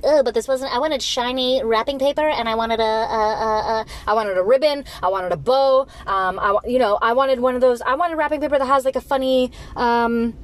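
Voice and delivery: pouty, entitled whining about wrapping paper; hammed-up petulant kid; whiny spoiled gift receiver. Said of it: "are you gonna be like".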